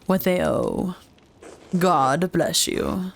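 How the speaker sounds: slow, measured clerical refusal; a hint of a formal priest, taking his time; lightly voiced unyielding priest. Priest refuses Andreas a tax change, lightly voiced and measured.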